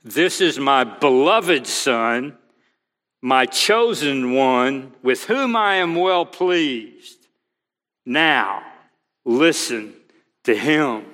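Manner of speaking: slow, weighty, deliberate divine pronouncement; each phrase spaced out and grave; solemn voice of God. Acted. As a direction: proclaim it slowly like the Father speaking from the cloud. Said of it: "put Matthew and Mark and Luke together".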